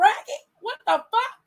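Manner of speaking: high, loud shouting, rising to a yell; furious shout. Retold or imitated. Host turning on a disrespectful son, yelling high and loud. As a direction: scream at him in disbelief. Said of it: "I have to turn around and be like".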